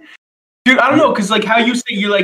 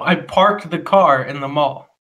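slower, lower, spelling out car; slow correct model; 4 semitones lower, slower than usual. Shown as a demonstration. Friend corrects him with a slow careful model. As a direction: show him how it should sound. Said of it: "Wait, no, no, no".

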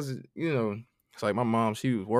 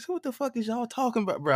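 much higher, laughing incredulity; laughing disbelief; 13 semitones higher, faster than usual. Retold or imitated. Telling the podcast host, high laughing disbelief. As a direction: squeak it out through laughter.

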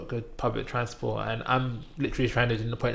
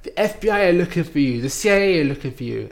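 fast, louder intimidating barrage; rapid threats; 5 semitones higher, 6 dB louder, faster than usual. Retold or imitated. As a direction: rattle off threats to scare her. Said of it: "And he's like".

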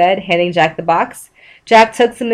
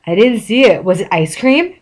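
dopey voice. Acted. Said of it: "Patrick said stupidly".

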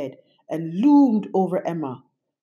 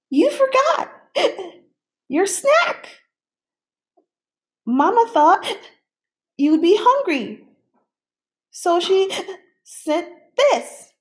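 hiccuping; 13 semitones higher, 3 dB louder than usual. A narrator's reading. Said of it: "Stella's hiccups".

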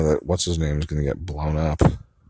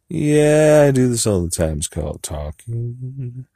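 shouted yeah; 6 semitones higher, 4 dB louder than usual. Shown as a demonstration. Practicing the line with a shouted yeah. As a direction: belt the yeah.

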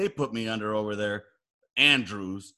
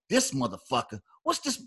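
imitating first sergeant; 4 dB quieter than usual. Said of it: "'Cause that's how he talks".

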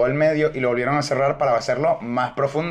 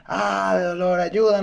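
imitating cry for help; 5 semitones higher, slower than usual. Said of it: "hay un tío gritando".

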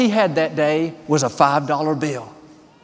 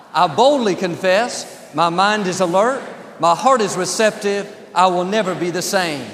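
bold confession; 3 semitones higher than usual. Real, not acted. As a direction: declare it with conviction. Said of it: "Say it like you mean it".

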